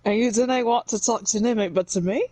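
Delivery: second try at the Scottish voice, thinking of Shrek; Shrek Scottish accent. Acted. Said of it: "You just think of Shrek".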